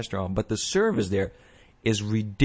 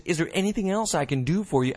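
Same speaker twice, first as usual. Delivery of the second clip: higher, sugary mock server voice, stretched out; mock overeager waitress; 8 semitones higher than usual. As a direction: ham up the overly attentive waitress. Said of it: "when she said".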